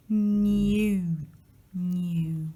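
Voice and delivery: new in a British accent, with a yoo glide; British accent: say new as nyoo. Shown as a demonstration.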